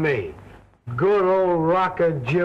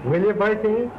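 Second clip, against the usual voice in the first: put-on drunk. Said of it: "but you're tight".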